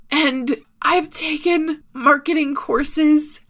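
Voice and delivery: real tears pushing through the words; crying. Real, not acted. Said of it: "I'm crying while I say this".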